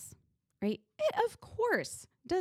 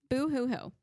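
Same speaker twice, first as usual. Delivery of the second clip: mock boo-hoo sobbing, higher; fake crying; 5 semitones higher than usual. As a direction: whine out a hammed-up boo hoo. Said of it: "my brain was telling me".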